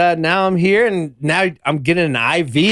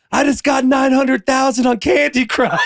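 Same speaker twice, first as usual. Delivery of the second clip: much higher, bright proud boast; imitating Abby; 10 semitones higher than usual. Guest quoting Abby's proud announcement, higher. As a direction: chirp it like an excited fan. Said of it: "She's like".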